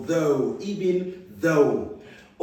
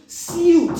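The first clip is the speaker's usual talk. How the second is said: Suit called out much higher and louder; 11 semitones higher, 6 dB louder than usual. Shown as a demonstration. Teacher drilling the vowel for pupils, loud high call. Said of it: "U I as in ooh".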